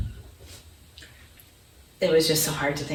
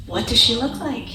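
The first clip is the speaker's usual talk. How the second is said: eager question; 6 semitones higher than usual. Retold or imitated. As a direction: ask it bursting with eagerness. Husband eager on the phone.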